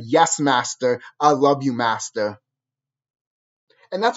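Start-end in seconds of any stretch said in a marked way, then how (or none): 0.0-2.4 lower, meek, fading voice; mock submissive slave. Mocking ancestors beaten into submission, lower and meek. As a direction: say it cowed and broken. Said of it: "to the point that you said".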